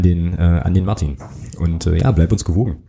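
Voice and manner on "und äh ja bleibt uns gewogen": usual speaking voice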